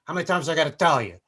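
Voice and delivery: lightly voiced movie gangster parody; Scarface. Comic reshoots the gangster's speech for today, gangster impression. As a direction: lecture them in a mild gangster accent. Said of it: "If they were gonna do that scene again".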